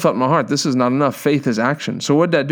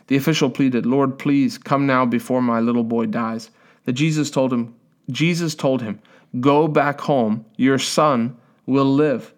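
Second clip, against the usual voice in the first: scripture reading; 2 semitones lower than usual. A narrator's reading. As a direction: read the Bible passage aloud, restrained and even. Reads the Bible aloud.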